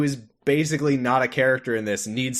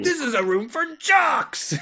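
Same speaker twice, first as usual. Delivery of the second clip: mock excited. Voicing character's excited line.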